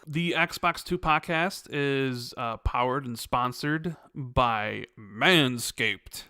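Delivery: slow, deliberate podcast ad read; host's sponsor announcement. Acted. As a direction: announce the sponsor with measured pacing. Reads the sponsor spot.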